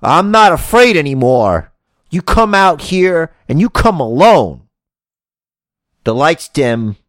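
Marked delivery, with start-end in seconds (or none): 0.0-4.7 loud wrestler challenge, lightly voiced; Cesaro. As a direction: throw down the challenge. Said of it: "I can't do a Cesaro impression".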